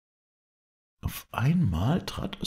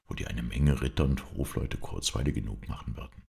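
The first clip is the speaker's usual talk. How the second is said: lightly voiced king, mostly lower; consoling king; 4 semitones lower than usual. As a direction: soothe a crying little sister. King comforts weeping sister. (sanft tröstender König)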